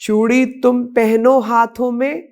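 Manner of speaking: measured verse recital, pitch lifted above plain speech; patriotic poem recitation. Acted. Woman reciting a once-banned poem honouring India's women, declaimed in verse. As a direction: recite it line by line in a rhythmic verse cadence.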